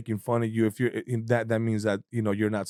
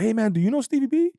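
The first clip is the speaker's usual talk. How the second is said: imitating Bobby; 12 semitones higher, 4 dB louder than usual. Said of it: "Bobby was like".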